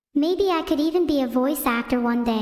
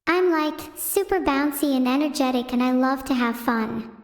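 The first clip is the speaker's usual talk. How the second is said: Filion impression. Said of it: "here's my impression of Filion".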